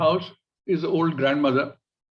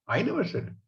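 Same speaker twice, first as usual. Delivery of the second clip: "I" pitched up, "never said" dropping; stress on I; 5 dB quieter than usual. Shown as a demonstration. Lady saying somebody else said it, stressing "I". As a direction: put the weight on "I". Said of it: "Somebody else might have said that".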